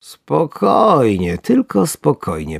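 slow, drawn-out self-soothing; calming himself. A narrator's reading. Angler reassuring himself, slow forced calm. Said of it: "powtarzał sobie w tym czasie wędkarz".

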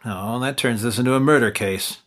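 ordinary talk

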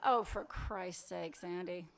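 slow, low exasperation; cross. Acted. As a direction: drag it out, fed up. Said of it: "Don't be cross".

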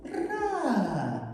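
"Венера" split into three slow syllables; slowly counted syllables in "Венера". Shown as a demonstration. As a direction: sound out "Венера" with pauses between syllables. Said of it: "Три склади".

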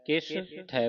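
ਕਿਸ ਥੈ with the two words apart; two separate words. Shown as a demonstration. Teacher shows the word split, ਕਿਸ ਥੈ said separately. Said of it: "ਵੱਖਰਾ ਵੱਖਰਾ".

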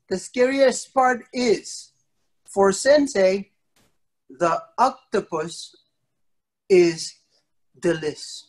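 slow, dropping voice, a hammed-up spooky build; teasing fake-scary punchline for kids; mock scary reveal. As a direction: drag out the big reveal like a campfire tale. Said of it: "I'm gonna say one of the scariest part".

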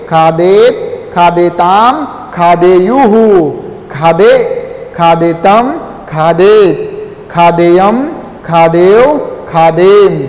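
teacher repeating the table for pupils to echo; recitation drill. Shown as a demonstration. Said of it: "एक बार फिर से मेरे साथ उच्चारण कीजिए".

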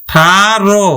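"আঠারো" broken into a, tha, ro; spaced-out "আঠারো" with a clear final o; syllable by syllable. Shown as a demonstration. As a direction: say "আঠারো" in separate syllables, ending in o. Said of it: "এভাবে".

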